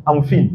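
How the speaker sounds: FINE as "feen"; mispronounced FINE. Retold or imitated. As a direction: swap the vowel of FINE for "ee". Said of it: "la personne va pas comprendre". (FINE dit avec un i français)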